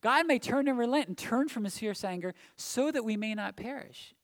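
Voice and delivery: loud, rising cry of hope at the start; king's urgent plea. Retold or imitated. Preacher voicing the king of Nineveh as an urgent cry. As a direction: call it out like a desperate king. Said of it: "what the king says in verse nine".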